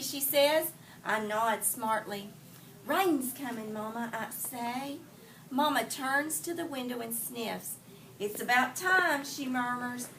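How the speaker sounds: put-on expressive read-aloud for children; story reading. A narrator's reading. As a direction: read the story to the class, lively. Teacher reads picture book aloud.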